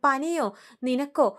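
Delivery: mother-in-law doubting the fever, slow and sneering; mocking disbelief. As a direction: scoff at her excuse.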